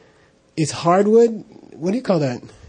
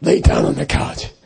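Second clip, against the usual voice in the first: mean lama voice. Retold or imitated. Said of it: "His voice was like that".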